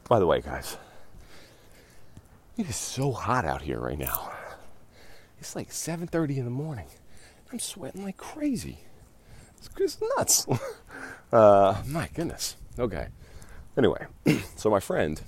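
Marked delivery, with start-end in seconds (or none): 2.6-13.1 breathless from walking fast; panting between words in the heat; out of breath. Real, not acted. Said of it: "if it sounds like I'm out of breath".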